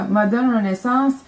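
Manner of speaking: slow English name in a French-Canadian mouth; accent anglophone. Real, not acted. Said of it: "mon bel accent anglophone". (accent anglophone appuyé)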